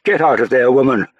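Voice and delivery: high, loud angry shout. Acted. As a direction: bark it at her across the room. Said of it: "Lord Halifax shouted".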